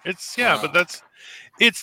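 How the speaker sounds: normal talking voice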